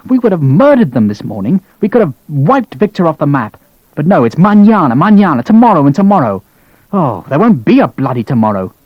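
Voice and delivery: high, heated fury with bitter mockery; seething rant. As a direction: rant and mock their laziness. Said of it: "seething fury".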